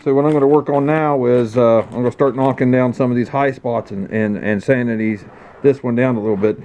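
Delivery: muffled, talking through a mask. Real, not acted. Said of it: "Sorry if I sound muffled, I got a mask over me".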